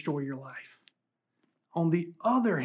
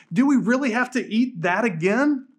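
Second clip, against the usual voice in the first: put-on pestering child; 5 semitones higher, 4 dB louder than usual. Pastor voices kids nagging parents.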